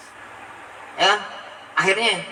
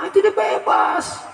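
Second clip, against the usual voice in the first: sudden shout; 12 semitones higher, slower than usual. Acted. Shout heard.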